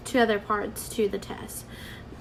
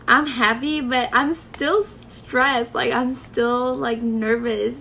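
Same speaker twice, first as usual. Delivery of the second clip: happy but still stressed; 3 semitones higher, 5 dB louder than usual. Retold or imitated. Retelling relief mixed with nerves.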